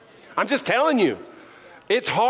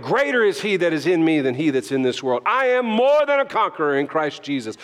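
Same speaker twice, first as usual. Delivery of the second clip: scripture declared with punchy attitude; a little stank. Shown as a demonstration. Preacher showing you gotta quote it, with some stank. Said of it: "put a little stank on it".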